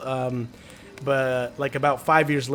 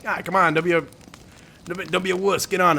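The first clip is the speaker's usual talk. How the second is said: higher taunting dad voice; dad pressuring; 5 semitones higher, faster than usual. Retold or imitated. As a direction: goad the scared kid onto the ride. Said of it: "He'd be like".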